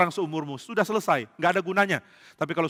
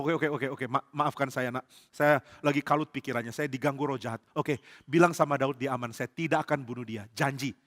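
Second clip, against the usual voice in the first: subdued apology; 3 semitones lower, 6 dB quieter than usual. Acted. Saul backs down and apologises.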